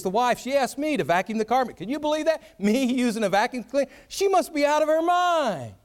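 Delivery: a hint of a dismissive husband griping to the guys; offhand bragging complaint about the wife, rising to mock outrage; cold detached husband. Husband griping to friends about his wife, lightly voiced and dismissive. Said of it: "he's talking about his wife".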